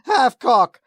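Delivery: laughing as he says Hathcock!. Real, not acted. Cracking up over the name, laughing it out. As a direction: blurt Hathcock! through a laugh.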